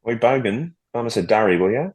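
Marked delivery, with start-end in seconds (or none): 0.1-0.7 higher-pitched put-on Australian call; mock Australian slang; Australian accent. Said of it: "it's a very good accent". 1.6-1.9 put-on Aussie question; mock Australian; Australian accent. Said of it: "You sound Australian to me".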